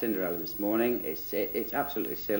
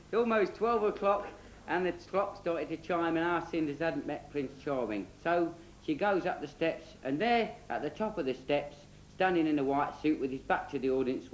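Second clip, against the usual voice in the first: put-on children's storyteller; 3 semitones higher than usual.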